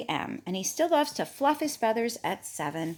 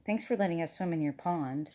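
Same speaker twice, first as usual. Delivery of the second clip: soft, lower, subdued voice; meek thanks; 4 semitones lower, 8 dB quieter than usual. Acted. Chick leaving the pond after a scolding, meek and quiet. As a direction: say it small and sheepish.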